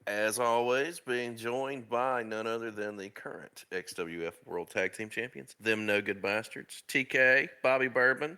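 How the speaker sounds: punchy show-opening announcer delivery; podcast host intro. Real, not acted. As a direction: welcome the listeners and build up your guests.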